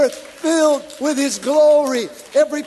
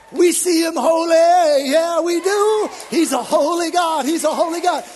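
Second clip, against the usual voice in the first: shouted worship; 3 semitones higher, 5 dB louder than usual. Acted. Other group answering in worship.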